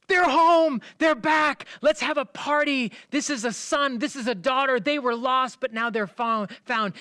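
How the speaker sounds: very high, loud joyful shout; overjoyed father shouting to the house; screaming. Acted. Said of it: "screams back at the house".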